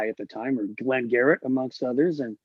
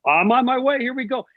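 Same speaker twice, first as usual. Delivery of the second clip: higher, louder eager inner voice; mock confident thinking; 8 semitones higher, 3 dB louder than usual. Teen sure of his success, mildly excited inner voice. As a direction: lightly act out youthful confidence. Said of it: "and I'm thinking".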